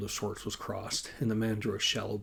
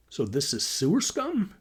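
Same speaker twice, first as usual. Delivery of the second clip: higher, louder complaint; sighed complaint; 6 semitones higher, 7 dB louder than usual. A narrator's reading. Man told the soybeans ran out, exasperated complaint. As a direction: protest with a touch of exasperation. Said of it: "Adam sighed".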